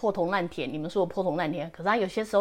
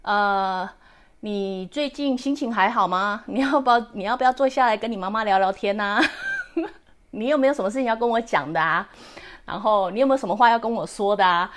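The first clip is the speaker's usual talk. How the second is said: gentle motherly. Retold or imitated. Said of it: "看着我女儿说".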